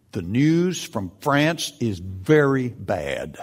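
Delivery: slow, grave quoting of Churchill; Churchill quote. Retold or imitated. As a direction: read it slowly and gravely, like Churchill. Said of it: "Churchill began one of his most famous speeches".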